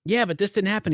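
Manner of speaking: high mock lawyer protest; mock female lawyer. Retelling her courtroom protest, high and mocking. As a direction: squeak her objection in a high voice.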